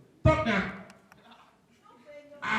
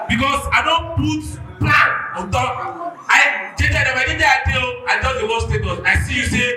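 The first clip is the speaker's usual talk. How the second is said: loud, high, aggrieved ranting; heated shouting rant; 4 semitones higher, 6 dB louder than usual. Real, not acted. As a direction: shout the whole grievance. Angry fan rants about codes.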